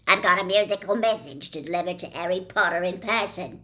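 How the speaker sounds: loud, fast and menacing dwarf voice; gruff dwarf with a menacing edge; threatening dwarf. A narrator's reading. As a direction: announce it like a threat. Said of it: "twanging his harp in a threatening sort of way".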